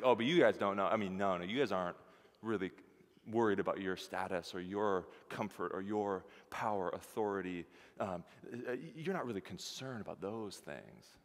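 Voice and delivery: understated sarcasm, lightly acted; gently playing with them; sarcastic. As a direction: tease them with dry mock reassurance. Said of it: "this is, like, sarcastic".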